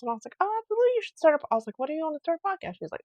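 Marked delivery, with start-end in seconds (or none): 0.4-1.5 very high and louder, cheering; retold gushing encouragement; enthusiastic. Cheering on the friend's podcast. 1.8-2.8 high, curious; mild retold eagerness; eager question. Eager question about her podcast.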